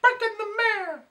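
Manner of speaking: big high loud mock-dramatic title call; dramatic announcement. Repeating the story title to the friends, with a big mock fanfare. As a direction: announce it like a grand headline.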